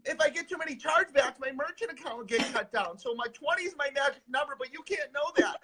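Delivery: sneering impression of a money-grabbing guru; mocking a fake guru. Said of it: "what genuine light working is versus".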